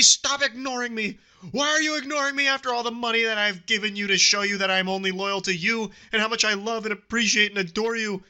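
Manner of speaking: high, pleading indignant rant; hammed-up wounded demand; mock outrage. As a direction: act out the jilted fan's whiny fury. Reading the obsessive fan's messages.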